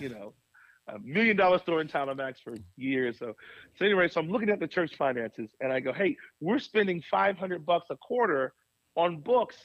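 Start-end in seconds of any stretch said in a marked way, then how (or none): 5.9-9.6 higher, exasperated budget rant; frustrated complaint. Retold or imitated. Pastor at the board meeting, frustrated and higher. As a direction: air the grievance, puzzled and fed up. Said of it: "And I got so frustrated".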